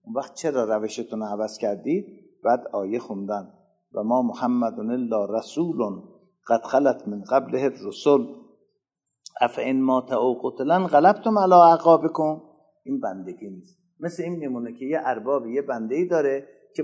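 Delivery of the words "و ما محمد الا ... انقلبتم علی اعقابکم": Quran recitation. Acted. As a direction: intone the verse as in recitation.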